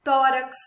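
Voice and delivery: "tórax" with a loud TÓ; stress on penultimate syllable. Shown as a demonstration. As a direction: hit TÓ hard in "tórax". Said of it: "sílaba tônica na penúltima sílaba".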